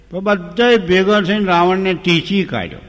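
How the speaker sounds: laughing through the punchline. Real, not acted. Storyteller laughing as Ravan gets beaten. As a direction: chuckle while telling it. Comic climax, laugh heard.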